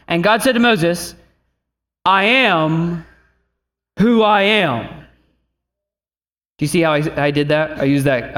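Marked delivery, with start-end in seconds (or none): 2.0-5.0 slow, stately voice of God. Acted. God answering Moses at the burning bush, stately God voice. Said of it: "I use that voice".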